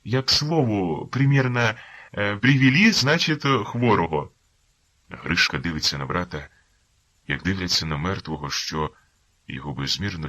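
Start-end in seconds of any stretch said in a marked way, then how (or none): 0.0-4.3 high, hesitant, anxious justifying; flustered excuse. Acted. Informer nervously justifying himself to the lieutenant, high flustered. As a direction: babble an excuse. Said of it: "Виправдовувався".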